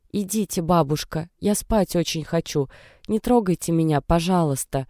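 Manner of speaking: put-on a mild sick girl whimpering to be left alone; whining plaintively. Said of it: "жалобно прохныкала Даша". (жалобное хныканье, тише и чуть выше)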